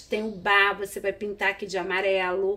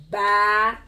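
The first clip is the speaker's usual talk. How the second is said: "banana" loudly split as ba... na... na; syllable by syllable; 5 dB louder than usual. Shown as a demonstration. Teacher modelling syllables for the class, syllable by syllable. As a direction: separate every syllable of "banana". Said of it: "pra gente identificar as sílabas".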